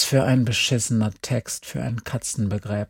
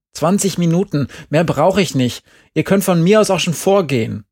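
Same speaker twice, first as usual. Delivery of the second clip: pleading; 6 semitones higher, 5 dB louder than usual. A narrator's reading. Andi pleading for time.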